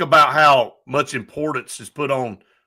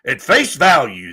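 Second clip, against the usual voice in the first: mock gullible; 6 semitones higher, 3 dB louder than usual. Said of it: "they just like".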